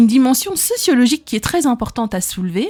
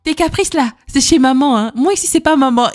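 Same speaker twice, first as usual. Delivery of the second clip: raised, firm scolding, a bit higher; wife scolding husband over his whims, louder; scolding retort; 3 semitones higher, 3 dB louder than usual. Retold or imitated. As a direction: tell off a fussy husband. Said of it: "J'ai dit".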